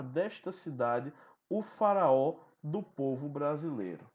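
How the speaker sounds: measured, emphatic recitation of the sonnet; solemn baroque poem read aloud. Acted. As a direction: declaim the verses with weight.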